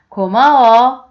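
loud, grateful thank-you; happy thanks. Acted. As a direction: beam your thanks. Friend thanks. (크게 기뻐하며 고마워하는 친구)

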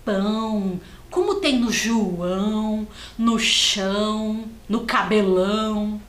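pão, João, chão, cabelão stretching the nasal ão; nasal ão demo. Shown as a demonstration. Teacher shows the nasal sound of pão to children. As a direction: linger on the nasal ão in each word. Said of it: "é esse som nasal".

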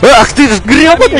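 shrill squeaky cartoon shout. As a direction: yell it in a squeaky kid voice. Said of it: "говорю таким писклявым голосом".

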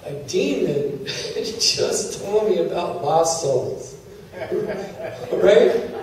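chuckling through the words, slowed; amused disbelief; laughing. Real, not acted.

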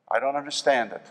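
I don't understand it, said softly; soft repeat. Real, not acted. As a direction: drop it quietly, almost to yourself. Pastor repeats, second soft.

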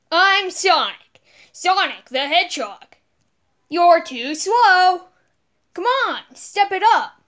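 cocky hedgehog hero, lightly voiced; brash and cocky, a hint of Sonic. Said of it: "let's start with Sonic".

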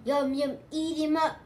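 loud, high hungry bellow; toilet's bellow. A narrator's reading. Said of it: "The toilet below".

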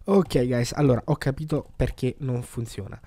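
loud, upbeat return to camera; excited announcement. Real, not acted. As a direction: burst back in with news.

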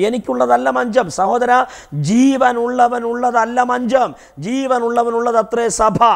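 high, measured preacher's declamation; declamatory preaching. Real, not acted. Preacher painting the funeral procession Jesus stopped, declamatory preaching. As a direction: proclaim each short phrase, held high with pauses. Preaches the raised boy's choice.

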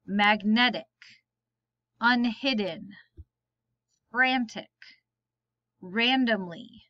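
each word said alone, clear and careful, with a pause after it; word list read aloud. Shown as a demonstration. Teacher reading spelling words to the class, slow and careful.

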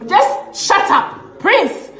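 slow whispered order. Real, not acted. Ranting at Prince, slow whisper: just shut up. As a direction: whisper it slowly, all breath.

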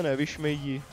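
ordinary talk

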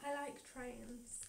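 slow, soft seductive purr. Pretend. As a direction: breathe it like a seduction. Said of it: "In a really seductive voice".

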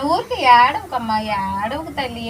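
slow, gentle soothing. Real, not acted. Mother soothing her crying daughter, slow and gentle.

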